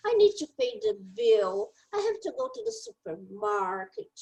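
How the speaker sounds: pensamento dito em inglês, calmo; o mesmo pensamento, agora em inglês. Shown as a demonstration. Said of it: "fala em inglês". (demonstrando o pensamento em inglês)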